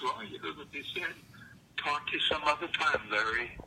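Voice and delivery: nonchalant. Retold or imitated. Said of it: "he was very nonchalant".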